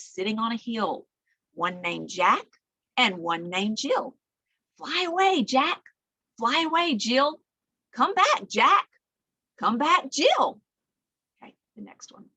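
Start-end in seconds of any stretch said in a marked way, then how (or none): 4.8-10.6 sing-song rhyme voice. Acted. Butterfly rhyme, voicing the butterflies.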